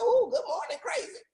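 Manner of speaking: high, teasing sing-song hello; sassy mirror greeting. Retold or imitated. Woman greeting her own reflection in the mirror, high and teasing. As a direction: greet yourself like you know you're the problem. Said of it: "look yourself in the mirror and go".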